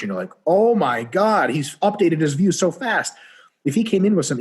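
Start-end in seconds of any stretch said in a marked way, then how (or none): 0.5-3.1 amazed. Retold or imitated. Amazed at the fast-learning alien.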